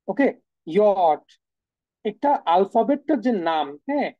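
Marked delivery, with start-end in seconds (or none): 0.1-1.2 ইয়ট drawn out very slowly as German J; German letter name. Shown as a demonstration. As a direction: stretch ইয়ট for learners. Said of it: "আরেকটা হচ্ছে ইয়ট". (German J-এর নাম ইয়ট ধীরে)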